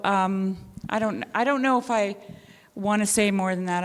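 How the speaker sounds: ordinary delivery, nothing marked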